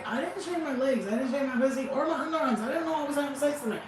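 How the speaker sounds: blurting out excuses to the guy, lightly acted; flustered confession. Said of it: "you tell the guy".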